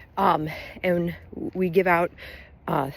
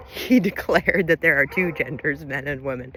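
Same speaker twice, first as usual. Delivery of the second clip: laughing while talking; 2 semitones lower than usual. Real, not acted. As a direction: struggle to get it out without cracking up. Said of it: "I'm gonna laugh through the first half".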